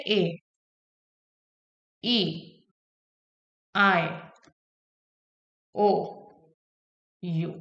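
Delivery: ए, ई, आई, ओ, यू said as drawn-out letter names; long vowels ए, ई, आई, ओ, यू as full names; long vowel sounds. Shown as a demonstration. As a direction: say each letter name ए, ई, आई, ओ, यू separately, with pauses. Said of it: "long sound की अगर मैं बात करूं".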